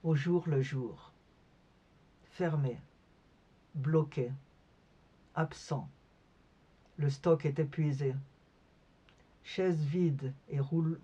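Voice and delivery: sparse recitation with long pauses between fragments; poetry reading. Acted. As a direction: let each short phrase hang in silence. Reads her poem aloud. (lecture de poème, entrecoupée de silences)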